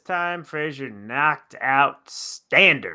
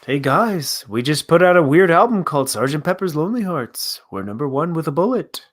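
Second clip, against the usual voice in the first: put-on British accent; 2 semitones higher, 3 dB louder than usual. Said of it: "get that accent ready".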